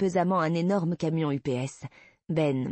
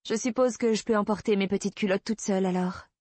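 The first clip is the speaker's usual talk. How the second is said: higher, lightly feigned nonchalance; breezy bravado; 5 semitones higher than usual. Acted. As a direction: toss it off as if unconcerned. Feigned nonchalance after his warning.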